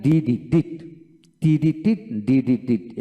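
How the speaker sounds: "ডিডি, ডিড" drilled in short syllables with i; teacher drilling "ডিড" with a short i; syllable ending drill. Shown as a demonstration. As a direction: chant "ডিডি, ডিড" as di-di-dit. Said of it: "এভাবে উচ্চারিত হবে".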